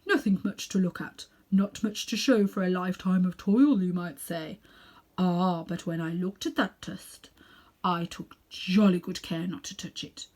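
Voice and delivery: put-on self-important elderly uncle showing off; Uncle Andrew. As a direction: lecture the boy like a vain old magician. Uncle Andrew explains the dust.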